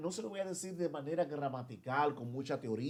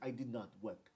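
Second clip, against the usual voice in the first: softer imitated British accent; teacher's mock British English; 3 semitones lower, 8 dB quieter than usual. Shown as a demonstration. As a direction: demonstrate a British pronunciation, softly. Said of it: "Así que le van a decir".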